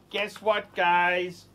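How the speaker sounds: soft, low-key repeat; understated soft hook; toned-down teaser. Real, not acted. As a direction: drop it down, quiet and confiding.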